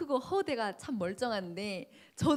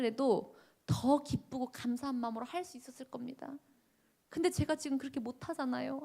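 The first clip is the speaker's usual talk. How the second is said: higher, pleading through tears; a hint of sobbing, raised pitch; tearful prayer; 5 semitones higher than usual. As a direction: complain to God while crying. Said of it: "울면서 막 기도를 하기 시작합니다".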